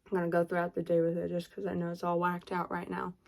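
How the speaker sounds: talking with a retainer in; speech around a retainer; wearing a retainer. Real, not acted. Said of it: "So I might lisp".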